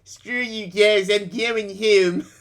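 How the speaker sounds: slowed, lightly voiced Cartman whine; a touch of a huffy cartoon kid quitting; mild mock Cartman storming off; Cartman impression.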